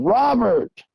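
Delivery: high, urgent call uphill. Retold or imitated. Hunter retelling calling his partner again in panic, high urgent call. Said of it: "I yell again".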